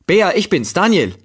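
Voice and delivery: calls her name loud and high into the flat; calling out. A narrator's reading. Daniel calls for Bea through the empty apartment, loud and high. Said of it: "rief ich".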